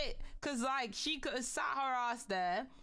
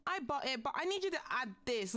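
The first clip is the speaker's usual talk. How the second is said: mocking entitled buyer; 5 semitones higher than usual. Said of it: "the audacity of people to be like".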